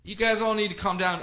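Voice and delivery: high, hurried hush of the animals; calm the sea creatures in a high bro voice; high, soothing whoa. Retold or imitated. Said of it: "And he's like".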